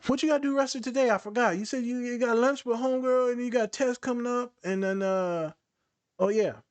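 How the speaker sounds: high-pitched, casual chatter as a demo; quick regulating distraction. Shown as a demonstration. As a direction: distract someone with airy, forgetful small talk. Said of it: "you wanna dere-, or regulate someone real quickly?".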